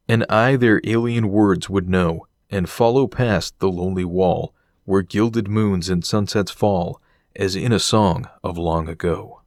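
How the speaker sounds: slow, measured poetry reading; poem recital. Acted. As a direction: recite it gently, like old verse. Recites a poem over footage.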